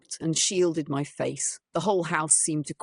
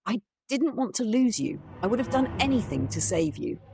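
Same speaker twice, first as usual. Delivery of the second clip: sobbing apology; 6 semitones higher than usual. Acted. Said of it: "as I sobbed openly".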